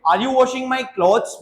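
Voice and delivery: slow, careful question for learners; slow model question. Shown as a demonstration. Teacher modelling the question slowly. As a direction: stretch each word out. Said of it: "कैसे पूछेंगे?".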